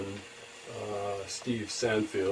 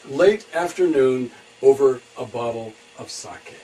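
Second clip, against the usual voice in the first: louder, measured title read; poem title announcement; 5 semitones higher, 13 dB louder than usual. Acted. Poet introducing a poem for a friend, announcing its title.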